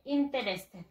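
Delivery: interested as "in-te-res-ted"; spelling pronunciation of interested; read as spelled. Shown as a demonstration. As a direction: pronounce every written vowel in "interested". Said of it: "Así se escribe".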